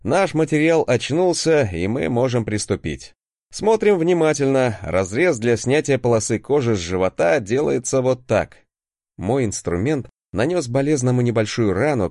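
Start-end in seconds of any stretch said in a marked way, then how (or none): 0.0-8.6 strict teacher. Acted. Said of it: "играем с тобой в строгого преподавателя".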